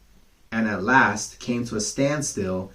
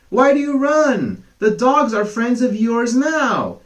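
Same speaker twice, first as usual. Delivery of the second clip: higher, louder teasing call; mock-innocent call; 13 semitones higher, 7 dB louder than usual. Cock taunting the fox as he runs, loud. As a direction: shout the jab after him.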